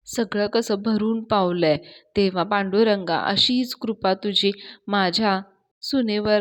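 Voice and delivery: slow, earnest prayer to the god; devout prayer. Acted. Father-in-law praying slowly for his daughter-in-law.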